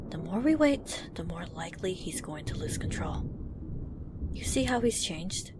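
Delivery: hushed and urgent; whispered warning. Acted. Whispering to the group about Louis, hushed urgency. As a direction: keep it under your breath, pressing.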